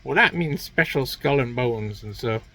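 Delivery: a hint of a sweet mother, building to a high shout; mock mom. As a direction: coo it like a doting mom, then burst out. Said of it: "Their mom was like".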